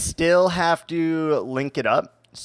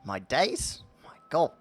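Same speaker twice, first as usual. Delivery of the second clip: playful put-on British exclamations; British accent; 2 semitones higher than usual. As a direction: try out British oaths in a mock accent. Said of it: "Must start talking in a British accent".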